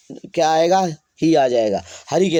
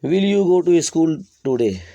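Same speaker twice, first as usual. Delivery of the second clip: slow dictation; much slower than usual. Shown as a demonstration. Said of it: "dictating slowly word by word".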